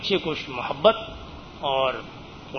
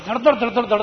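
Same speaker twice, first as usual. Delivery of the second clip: loud, rapid mimicked thudding of feet; imitated running footsteps; 7 semitones higher, 5 dB louder than usual. Preacher mimics latecomers running to join prayer, imitated thudding footsteps. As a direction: thud out the sound of people rushing in. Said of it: "تو اس طرح سے ... آواز آتی".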